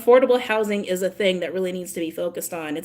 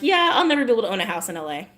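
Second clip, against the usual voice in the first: put-on resigned teen; faster than usual. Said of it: "being like".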